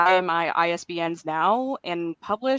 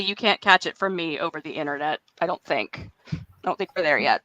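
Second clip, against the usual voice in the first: cold voice; 2 semitones lower than usual. Real, not acted. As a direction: voice thick from a cold. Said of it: "I do have my sexy cold voice on".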